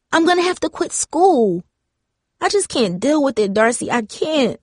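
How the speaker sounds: put-on a scared teen spilling everything through tears; voice cracking into sobs. A narrator's reading. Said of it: "her voice cracking into sobs".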